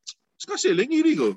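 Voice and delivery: a high sneering tease; mocking voice. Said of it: "people are like".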